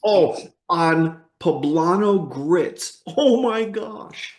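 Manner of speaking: slow, drawn-out food rapture; delighted gush. Real, not acted. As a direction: savour every word, slowly. Raving about breakfast.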